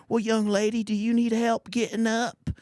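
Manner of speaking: high-pitched put-on old man voice; elderly Vietnam vet. Old vet offers a fallen young woman help, hammed-up old man. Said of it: "If I was a seventy-two-year-old Vietnam vet".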